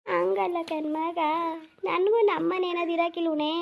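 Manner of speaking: slow, drawn-out plea; pleading old mother. Acted.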